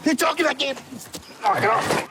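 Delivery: desperate pleading. Real, not acted. Suspect pinned down by officer.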